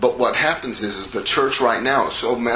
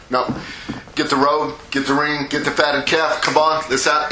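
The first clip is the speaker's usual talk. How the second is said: higher-pitched, hurried celebratory orders; eager father; 4 semitones higher than usual. Retold or imitated. Father cuts off his son's speech, eager and excited. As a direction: cut in and get the party going.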